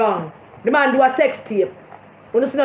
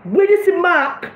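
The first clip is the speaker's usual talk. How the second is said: high, slowed mocking sing-song; mock Bunting again; 7 semitones higher, slower than usual. Mocking Bunting's promise to Jimmy, high and slow. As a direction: squeeze out the line in a mocking high voice. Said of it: "Bunting tell him".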